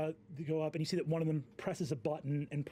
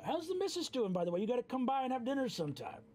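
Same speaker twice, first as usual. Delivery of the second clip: high friendly voice; 11 semitones higher, much faster than usual. Acted. NPC asks friendly, pitched up high.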